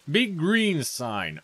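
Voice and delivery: slow, lightly voiced copy of the vendor; imitating the vendor. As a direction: drag it out like the shopkeeper did. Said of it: "Not really sure about the voice".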